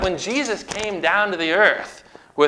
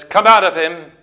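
rebuke; 6 dB louder than usual. Acted. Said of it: "He rebuked the spirit".

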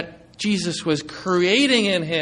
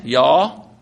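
Galilean accent; 4 semitones lower, 4 dB louder than usual. Shown as a demonstration. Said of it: "speaking in the Galilean a-, uh, accent there".

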